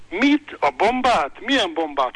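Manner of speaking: loud, high startled yell of a cop mishearing; booming cop. Retold or imitated. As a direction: bellow it in disbelief. (harsogó, hitetlenkedő kiabálás)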